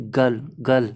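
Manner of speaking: गल said with no r sound; teacher models गल without the r; r swallowed. Shown as a demonstration. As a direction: drop the r and say गल, गल. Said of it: "रे नहीं पढ़ेंगे".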